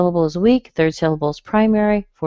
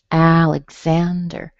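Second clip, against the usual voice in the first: Alexander drawn out, stress on ZAN; third-syllable stress; slower than usual. Shown as a demonstration. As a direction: say AL-ig-ZAN-der clearly for Alexander. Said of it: "stressed on the third syllable".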